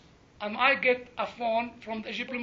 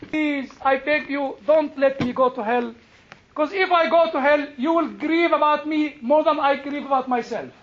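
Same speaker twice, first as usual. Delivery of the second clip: imploring prayer; 2 semitones higher, 4 dB louder than usual. Retold or imitated. Man praying not to go to hell, imploring. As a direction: beg with mounting urgency. Retold prayer begging for salvation.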